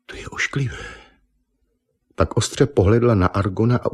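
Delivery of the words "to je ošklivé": whispered disgust. Acted. Eva peeks out, disgusted.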